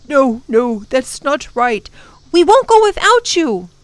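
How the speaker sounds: put-on the kids refuse to leave him; children refusing to go without the professor, insistent; children protesting. Tom and Lindy protest.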